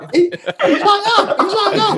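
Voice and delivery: high, loud words through real laughter; can barely get it out for laughing. Real, not acted. Cracking up at his own gaffe.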